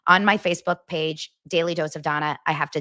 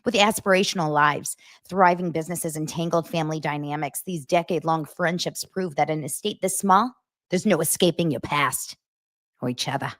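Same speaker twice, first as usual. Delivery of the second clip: light, bad Rhode Island accent; slightly put-on New England accent with dropped Rs; attempted Rhode Island accent. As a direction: read on in a half-successful Rhode Island accent. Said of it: "Was that the worst accent".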